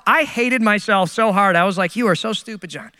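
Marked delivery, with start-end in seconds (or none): 2.0-2.9 self-berating inner voice. Retold or imitated. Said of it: "have you just ever hated yourself?".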